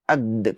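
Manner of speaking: "अद" with the D stopped by the tongue behind the teeth; makhraj demo. Shown as a demonstration. Teacher shows students where the letter dal is sounded. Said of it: "कहेंगे".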